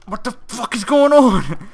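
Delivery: loud, high, slowed exasperated shout; frustrated yell. Real, not acted. Player yelling at viewers about the impossible jump, furious. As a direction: demand an answer from the viewers, fed up.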